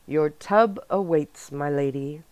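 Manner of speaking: put-on a deliberately terrible English accent, bowing theatrically; awful English accent. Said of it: "Roxon said in an awful English accent".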